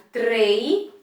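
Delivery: "trei" held apart with a rising end; first syllable of treino alone, "trei", left hanging; separated syllable. Shown as a demonstration. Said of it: "quando eu separo a palavrinha". ("trei" isolado, como primeira sílaba)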